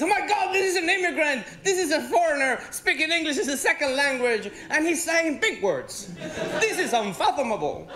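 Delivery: shocked audience. Retold or imitated. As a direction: play the stunned locals gawking. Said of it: "Look at those faces".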